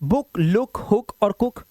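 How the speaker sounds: "बुक, लुक, हुक और कुक" with short u; quick short-u list, "हुक और कुक". Shown as a demonstration. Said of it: "छोटा ऊ है तो तेजी से".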